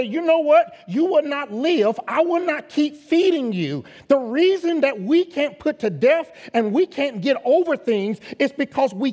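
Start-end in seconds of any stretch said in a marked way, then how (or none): 0.0-3.8 preacher voicing a firm refusal; forceful declaration. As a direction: tell the sin it's finished. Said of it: "grab these things and say".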